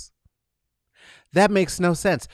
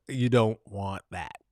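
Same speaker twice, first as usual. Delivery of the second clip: ordinary talk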